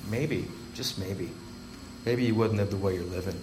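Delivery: soft hopeful inner voice; quiet inner voice, very soft. Retold or imitated. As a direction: let the voice in your head whisper hope. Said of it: "the voice in my head said".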